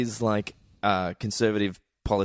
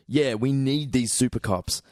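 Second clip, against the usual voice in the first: stoner voice. Acted. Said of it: "Why do you sound like a stoner when you say that?".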